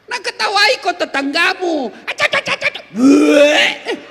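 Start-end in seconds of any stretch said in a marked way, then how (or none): 2.0-4.0 mock laughter.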